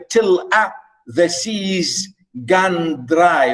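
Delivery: slow, measured poetry recitation; poem reading. Acted. Teacher reading Burns stanza to class, slow recitation. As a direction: read the verse slowly, drawing out each word.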